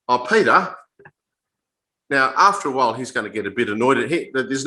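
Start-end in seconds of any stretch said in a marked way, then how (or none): 0.1-0.7 Peter sung out higher and louder, mock-innocent; teasing. Preacher deliberately teasing Alex with the wrong name, playful. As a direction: tease him with a bright Oh, Peter. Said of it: "calling Alex Peter again".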